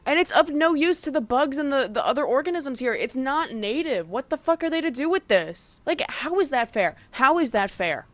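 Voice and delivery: rising rant. Real, not acted. Ranting about lawns.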